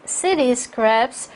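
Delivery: slow rise on "scraps", then stop; measured list item, resting after "scraps"; break at comma. Shown as a demonstration. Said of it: "컴마니까 쉬시고요". ("scraps" 뒤에서 끊어 읽기)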